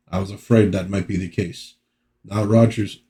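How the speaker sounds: lightly voiced wrong character accent; subdued take in a mistaken accent; wrong accent for Puck. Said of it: "I'm doing the wrong accent for Puck".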